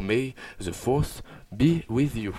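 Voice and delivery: slow, drawn-out English accent with a lilting tune; hammed-up English accent, savouring each word; a grand, slow English accent; sing-song English accent. Shown as a demonstration. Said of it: "mon accent anglais chantant".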